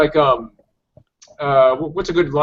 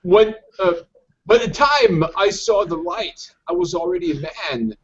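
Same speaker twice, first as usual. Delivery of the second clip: Bane impression; slower than usual. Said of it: "he says".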